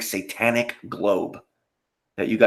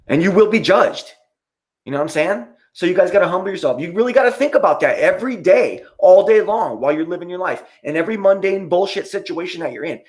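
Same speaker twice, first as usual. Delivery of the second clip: fired-up preaching; 6 semitones higher than usual. Real, not acted. Streamer preaching faith to his chat, fired up. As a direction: preach it hard at the viewers.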